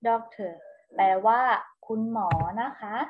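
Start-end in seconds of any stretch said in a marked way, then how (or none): 0.1-0.5 "doctor" repeated as "DOK-ter", falling at the end; English word model. Shown as a demonstration. Teacher repeats the English for children, "doctor" modelled as a clear example. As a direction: say "doctor" on its own with no final r. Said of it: "คุณหมอภาษาอังกฤษอ่านว่า".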